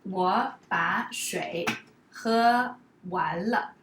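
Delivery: slow, deliberate example sentence; 慢慢地示范; slow demo. Shown as a demonstration. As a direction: spell it out slowly for learners. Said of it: "example sentence".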